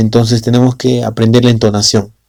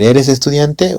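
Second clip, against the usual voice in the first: estudiante rises high at the end; rising question; 4 semitones higher, slower than usual. Shown as a demonstration. Teacher contrasting question and statement, rising on estudiante. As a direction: lift estudiante up as a real question. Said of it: "Y es muy diferente decir".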